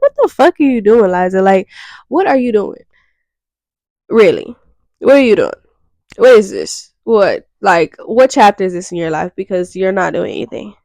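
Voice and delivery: exasperated self-scolding, questions thrown at herself. Pretend. To herself about doing nothing, exasperated scolding. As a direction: tell yourself off like a fed-up friend. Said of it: "I have to talk shit to myself".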